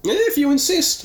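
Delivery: mock reluctant, secretly happy; happily. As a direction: fake reluctance, hiding glee. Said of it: "you say happily".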